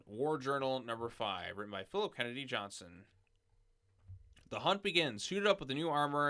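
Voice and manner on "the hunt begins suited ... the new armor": dramatic trailer voice. Acted. Dramatic blurb opener.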